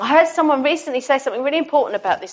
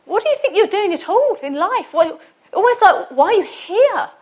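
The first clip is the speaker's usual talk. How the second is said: horrible voices; 7 semitones higher than usual. Retold or imitated. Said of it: "these horrible voices in my head".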